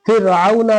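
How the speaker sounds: फ़िरऔना with a light r after "fi"; thin ra. Shown as a demonstration. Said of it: "पतला पढ़े".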